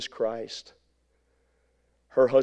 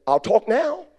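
high, louder frightened blurt; mock frightened squeak; 10 semitones higher, 5 dB louder, slower than usual. Preacher imitating his scared wife in turbulence, high squeak.

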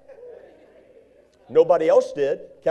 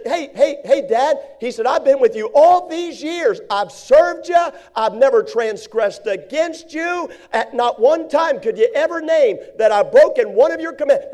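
put-on aggrieved older son, higher and louder; bitter older brother; 5 semitones higher, 3 dB louder than usual. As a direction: protest your years of service bitterly. Voicing older brother's bitter complaint.

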